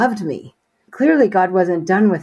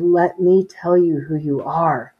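slow, gentle and tender, a touch hushed; God whispering lovingly to her; 2 semitones lower, slower than usual. Retold or imitated. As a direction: say it like a loving father reassuring his child. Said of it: "in the most loving voice I've ever heard".

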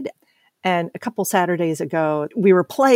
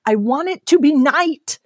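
put-on higher-pitched upset child demanding; imitated child screaming; 7 semitones higher, 4 dB louder than usual. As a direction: mimic a kid's screamed demand, first round. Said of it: "screaming in my face".

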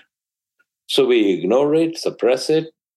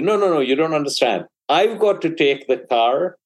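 put-on higher, slowed-down pushy teenager; insistent teen son; 7 semitones higher than usual. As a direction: spell it out like an impatient teen. Teen son pressing his mother.

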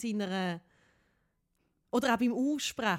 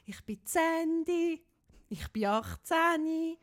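slow, higher put-on voice of a girl playing eighteen; pretend grown-up Sandy; 4 semitones higher, much slower than usual. Girl lying to her friend about her age, slow and higher. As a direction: drawl it out like a kid faking being grown up.

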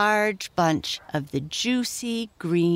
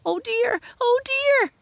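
very high panicked piglet squeal; high-pitched storybook pig in distress. A narrator's reading. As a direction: squeal it like a frightened little pig. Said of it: "squealed Squinty".

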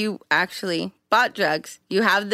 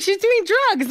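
high mock friend; 13 semitones higher, 3 dB louder than usual. Friend's quoted reveal.

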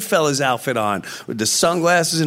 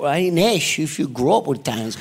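a hint of Joe Pesci, cutting you off; lightly voiced mobster snapping back; Joe Pesci impression; 4 semitones lower, faster than usual. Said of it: "That's an incredible impression".

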